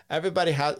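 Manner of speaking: a half-hearted try at a Slovenian accent on "Everybody has"; Slovenian accent attempt. Shown as a demonstration. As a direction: start the Slovenian accent, then give up. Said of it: "do I wanna do it in his, I think, his, uh, accent?".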